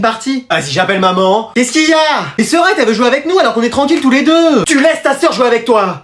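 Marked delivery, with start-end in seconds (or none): 1.5-6.0 higher-pitched, exasperated scolding; scolding mother. Acted. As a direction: put an end to the squabble. Mother called to settle siblings' quarrel.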